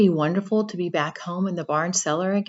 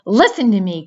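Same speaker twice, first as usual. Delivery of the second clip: urgent cry; 7 dB louder than usual. Acted. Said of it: "cried Wilbur".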